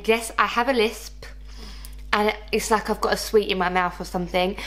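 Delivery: real lisp from new braces; lisping a little through lingual braces; slight lisp. Real, not acted. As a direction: talk as if round a sweet in the mouth. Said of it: "that is why I've got this weird lisp".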